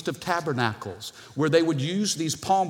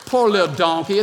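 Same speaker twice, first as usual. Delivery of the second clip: louder, pressing repeat of Poor little donkey; louder preached echo; 7 dB louder than usual. Acted. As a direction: drive Poor little donkey home with force. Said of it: "And God says".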